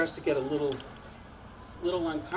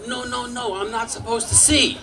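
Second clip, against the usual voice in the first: Nutsy voice; 8 semitones higher than usual. Retold or imitated. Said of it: "he'd go".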